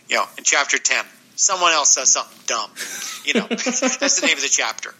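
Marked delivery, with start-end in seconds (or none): 3.2-5.0 laughing. Real, not acted. Laughing at own joke.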